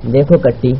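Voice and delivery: mild, gentle appeal; soft tone. Acted. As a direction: ease into it kindly, without pushing. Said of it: "Fayyaz نرم لہجے میں بولا". (نرم لہجے میں)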